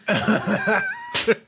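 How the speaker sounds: squeaky, scared intern voice; high cowering whimper. Retold or imitated. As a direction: cower and plead, high and thin.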